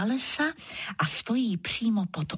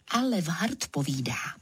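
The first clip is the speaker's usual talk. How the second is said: plain reading voice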